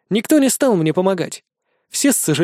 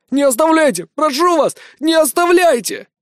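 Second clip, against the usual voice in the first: high panicked plea, much higher; desperate begging; 11 semitones higher, 4 dB louder than usual. Acted. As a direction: beg them not to leave you. Trapped man begs group.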